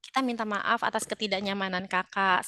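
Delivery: slow, subdued, sympathetic sorry; empathetic apology. Shown as a demonstration. Seller apologising to an upset customer, empathetic. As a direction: apologise gently, drawing it out. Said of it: "baru kita tunjukkan empati kita".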